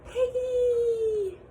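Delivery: high, loud panicked shout of a name; panicked call. Acted. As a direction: scream for your friend in a panic. Elephant panics, calls his friend.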